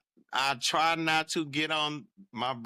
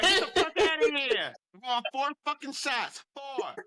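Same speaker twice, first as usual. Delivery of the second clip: put-on Boston accent; 9 semitones higher than usual. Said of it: "we're talking in Boston accents".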